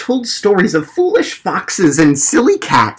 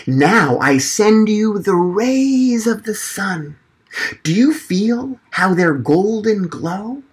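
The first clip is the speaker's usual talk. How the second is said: gentle storyteller voice; 3 semitones higher, slower than usual. Acted. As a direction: paint a warm picture slowly. Frederick conjures the sun.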